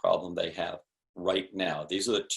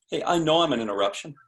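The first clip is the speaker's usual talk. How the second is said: knowing tone; 3 semitones higher, faster than usual. Shown as a demonstration. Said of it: "If you say it in that tone".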